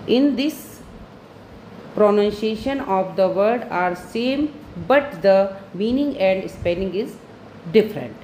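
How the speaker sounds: slow, word-by-word dictation for students to copy; teacher dictating a definition, very slow; dictation reading. Acted. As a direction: spell it out slowly so the class can write it down. Reads the definition aloud for notes.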